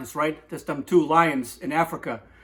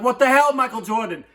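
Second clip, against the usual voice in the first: outraged frog; 7 semitones higher, 3 dB louder than usual. Retold or imitated. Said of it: "the frog's like".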